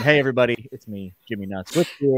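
hint of Brooklyn tough guy; Brooklyn accent. Host introducing himself to viewers in a light Brooklyn accent. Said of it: "I'm going into a Brooklyn accent".

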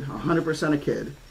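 usual speaking voice

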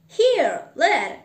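loud, high hail to a lad; calling out. Acted. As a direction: call it down to the street. Scrooge calls down to the boy.

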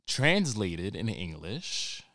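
usual speaking voice

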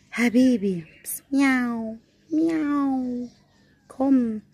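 high coaxing miau call; cooing cat call. Real, not acted. Calling the shy street cat to come out, cooing high.

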